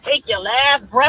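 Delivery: mocking threat, dragged slowly; slow quoted threat. Streamer replaying the threat line, slow and mocking. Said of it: "your homeboy said".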